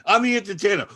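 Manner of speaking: high, loud mock insistence; imitated flustered entertainer; insistent protest. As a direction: insist over a hostile crowd. Retold entertainer pleading his case.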